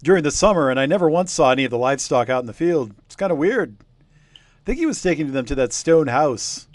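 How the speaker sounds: a hint of a chatty old villager spinning a yarn; old local villager. Game master voicing old villager telling the investigators, lightly voiced.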